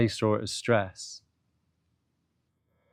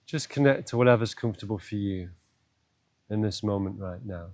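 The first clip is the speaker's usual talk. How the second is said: guided meditation; 2 semitones lower than usual. Acted. Teacher guiding listeners to breath and body, meditative. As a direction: ease the listener in, with long pauses.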